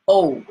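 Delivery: O said firmly on its own; Jamaican O sound. Shown as a demonstration. Teacher drilling the OU vowel for students. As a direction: say O clean and short. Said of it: "So O U is O".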